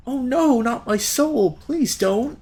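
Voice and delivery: high, hammed-up pleading; mock cowardly terror. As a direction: overact a cowardly plea. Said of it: "in a staged act of cowardice".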